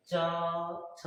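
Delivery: च and छ drawn out, tongue pressed to the palate; palatal consonants. Shown as a demonstration. Teacher showing where the tongue goes, च and छ held out from the palate. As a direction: stretch च, then छ, off the palate. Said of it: "जीभ जो है जाकर के तालु में सटता है".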